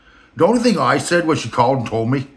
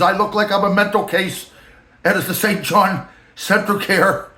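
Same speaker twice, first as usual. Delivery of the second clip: higher mock boss voice, slowing at the end; Rand's voice; 6 semitones higher than usual. The boss describing his looks, in a high mocking voice. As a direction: lampoon the boss rambling about himself. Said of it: "I'm just filling in voice".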